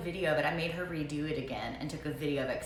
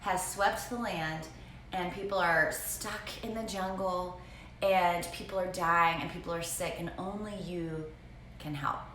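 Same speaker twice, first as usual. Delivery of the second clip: put-on reading a child's story. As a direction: read it like a grave prologue. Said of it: "What she wrote was".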